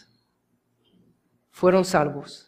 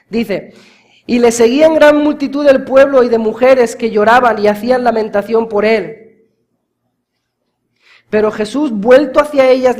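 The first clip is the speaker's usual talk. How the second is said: louder and higher, sustained fiery preaching; full-force preaching; 4 semitones higher, 7 dB louder than usual. Acted. Preacher crying out to the congregation about the cross, fiery and loud. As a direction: drive the message home at the top of the voice.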